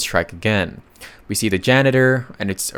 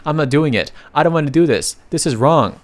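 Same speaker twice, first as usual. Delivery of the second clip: mock whiny kid tantrum, pitched up; childish tantrum; 4 semitones higher than usual. Brothers refusing volunteer work, hammed-up kid tantrum. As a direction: act like a sulking child refusing chores. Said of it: "throw a tantrum like they are the kids".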